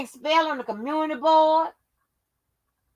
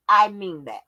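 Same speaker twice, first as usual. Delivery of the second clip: menacing whisper; 5 semitones lower than usual. Real, not acted. Ranting at haters, she whispers the threat. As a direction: drop to a whisper, dead serious.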